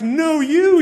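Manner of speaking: high, loud mock yell; father yelping at snot-covered son; dad's outcry. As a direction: cry out in disgust. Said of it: "And I'm like".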